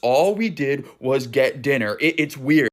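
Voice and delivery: firm, emphatic retelling of an annoyed son; mildly angry, slowing to stress the complaint; imitated angry son. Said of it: "like, visibly angry".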